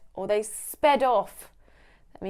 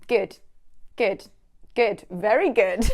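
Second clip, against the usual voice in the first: repetitive teacher praise; 4 dB louder than usual. Retold or imitated. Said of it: "repeating the word good over and over".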